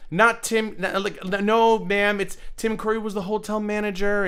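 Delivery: real frustration, stopping them short; exasperated correction. Real, not acted. Streamer shouting down the chat's mistake in exasperation.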